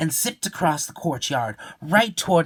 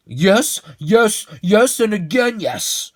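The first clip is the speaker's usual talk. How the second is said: excited agreeing; 9 semitones higher, 8 dB louder, slower than usual. Acted. Eager agreeing.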